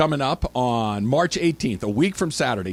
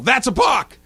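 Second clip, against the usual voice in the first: high, loud shout of a balk call; yelled call; 10 semitones higher, 6 dB louder than usual. Retold or imitated. Fan yelling at the umpire, loud shout. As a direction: bark it like a fan at the ump. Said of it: "your reaction is to yell".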